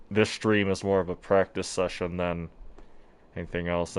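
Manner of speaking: speaking through a face mask; muffled voice behind a mask. Real, not acted. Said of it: "if I sound muffled, I have a mask on".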